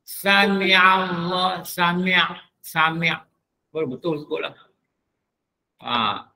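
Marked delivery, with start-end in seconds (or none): 0.1-3.1 Sami Allah slowly, then Sami' repeated; ain stressed. Shown as a demonstration. Ustaz drilling the imam's reading, slow. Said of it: "orang jadi imam pun sebut tu".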